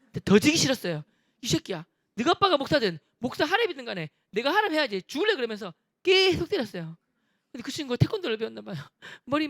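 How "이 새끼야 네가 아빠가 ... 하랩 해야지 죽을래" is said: angry threat. Retold or imitated. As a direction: threaten him without backing down. Bully threatening, retold.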